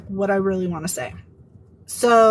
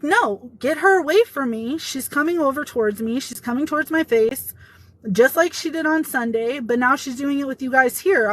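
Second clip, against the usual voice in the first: retold urgent protest; 3 semitones higher than usual. Telling HR to keep the coworker away, insistent. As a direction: re-enact pushing back, mildly alarmed.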